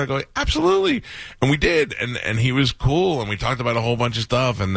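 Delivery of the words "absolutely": eager yes. Retold or imitated. Eager acceptance in a retold reply.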